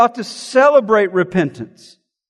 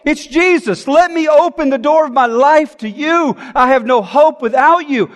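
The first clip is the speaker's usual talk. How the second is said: eager, desperate cry to Jesus; desperate joy; 3 semitones higher than usual. Acted. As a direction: greet him like your only hope. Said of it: "when you have a desperation".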